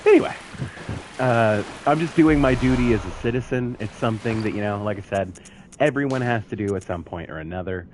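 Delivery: upbeat real estate agent pitch; realtor voice. Acted. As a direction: sell the neighborhood like a realtor. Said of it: "the realtor voice".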